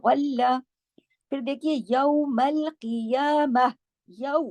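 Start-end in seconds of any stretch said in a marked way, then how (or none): 0.1-0.6 गल्ला with a thick ghain and a doubled lam; गल्ला said heavy, lam held on the shadda. Shown as a demonstration. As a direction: recite गल्ला full-mouthed, lam doubled. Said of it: "मोटा पढ़ेंगे".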